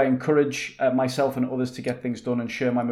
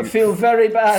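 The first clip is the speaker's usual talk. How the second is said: mock whimper; 10 semitones higher, 10 dB louder than usual. Badly hurt character.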